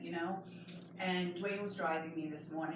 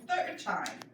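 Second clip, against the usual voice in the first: raised voice calling across the room; 8 semitones higher than usual. Real, not acted. Mother calls out to child.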